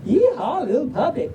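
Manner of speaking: high Southern cowboy yeehaw; Southern drawl. Acted. Reader hollering to a little puppy, Southern drawl. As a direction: whoop it with a Southern twang. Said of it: "but in a Southern drawl".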